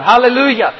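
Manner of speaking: high, loud Hallelujah; shout of hallelujah. Acted. Preacher reading the multitude's praise, shouted. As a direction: call it out in worship. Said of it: "there is a shout of hallelujah".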